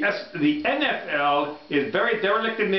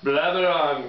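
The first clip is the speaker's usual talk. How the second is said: put-on Indian accent, running on; lightly put-on Indian accent. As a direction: blabber on in a mock Indian accent. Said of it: "The Indian accent".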